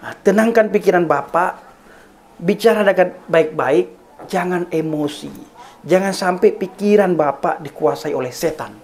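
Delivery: measured, mildly soothing appeal with long pauses; calm someone down patiently, without raising the volume; retold gentle reply. Pastor asking his angry neighbour to calm down, gently re-enacted appeal. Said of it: "Saya tetap menjawab dengan lemah lembut".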